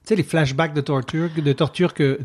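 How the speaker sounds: French words in an English accent. Real, not acted. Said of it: "je parle avec un accent anglais".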